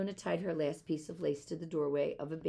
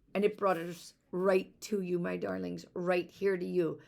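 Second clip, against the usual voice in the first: tearful father; 3 semitones higher, 5 dB louder than usual. Acted. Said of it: "father said as tears rolled down".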